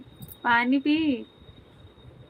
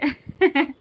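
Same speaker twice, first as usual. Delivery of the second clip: short laugh; 5 semitones higher, 7 dB louder than usual. Real, not acted. Laughs at spy comment.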